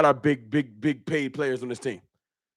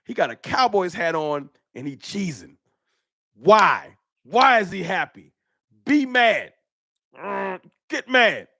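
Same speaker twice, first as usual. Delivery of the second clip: imitating a jealous hater. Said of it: "And you like".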